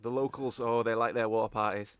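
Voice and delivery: lightly voiced Scottish contact; a knowing Scottish aside; Scottish accent. Contact telling party about the locals, Scottish accent. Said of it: "properly in a Scottish accent".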